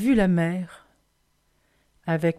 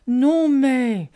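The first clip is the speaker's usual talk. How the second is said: slow, drawn-out bear reply; lightly voiced bear, stretching the words; 3 semitones higher, 4 dB louder, much slower than usual. A narrator's reading. Bear answering the child about the parcel, slow and drawn out. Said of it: "dit l'ours".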